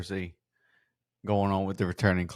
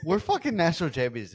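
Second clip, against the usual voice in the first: laughing; 6 semitones higher than usual. Real, not acted. Celebrating the championship win.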